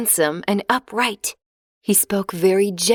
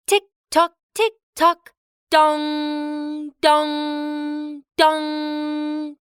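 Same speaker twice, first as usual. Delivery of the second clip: sung-out tick-tock and long dongs; clock chimes; 6 semitones higher, much slower than usual. A narrator's reading. Narrator imitates the palace clock striking, in long chimes.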